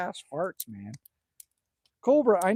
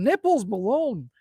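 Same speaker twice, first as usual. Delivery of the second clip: savoring the name; 3 semitones higher, 5 dB louder than usual. Real, not acted. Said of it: "I love the way that rolls off the tongue".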